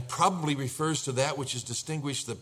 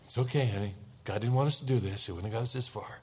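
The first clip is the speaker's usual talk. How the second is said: reassuring wife; 2 semitones lower, faster than usual. Acted. Wife calming her panicked husband.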